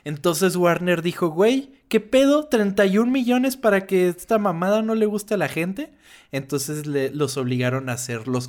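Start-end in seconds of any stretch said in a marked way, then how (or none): 1.3-5.9 ejecutivo indignado. Retold or imitated. Voz del estudio Warner indignado.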